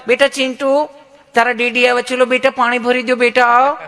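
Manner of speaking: a doting mom sweetly coaxing her son; sweet coaxing mother. Retold or imitated. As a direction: coo at little Chintu to fetch water.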